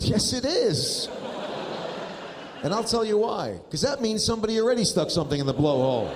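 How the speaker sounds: high, laughing, struggling to get words out; cracking up while explaining; dad laughing helplessly at his kids; laughing through it. Retold or imitated. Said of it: "And I said".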